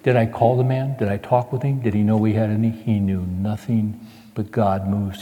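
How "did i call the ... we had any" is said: ordinary delivery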